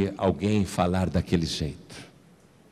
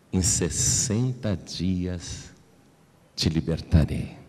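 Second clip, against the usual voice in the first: gentle divine voice; 5 semitones lower, slower than usual. Retold or imitated. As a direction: speak it gently and slowly like a voice from heaven. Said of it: "Essa voz mansa e delicada". (voz mansa e delicada, lenta e grave)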